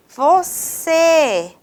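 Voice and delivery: "você" with a drawn-out, stressed final "cê"; stress on last syllable. Shown as a demonstration. Teacher showing students an oxytone, stressed "cê" in "você". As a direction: lean long on the "cê" of "você". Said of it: "você é a sílaba mais forte".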